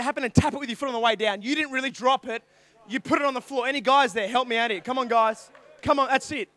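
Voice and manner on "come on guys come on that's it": calling out. Acted. Calling the audience for help.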